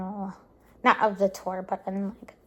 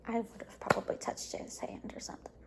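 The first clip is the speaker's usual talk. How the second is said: wistful whisper; 11 dB quieter than usual. Real, not acted. Wistful regret about touching hand.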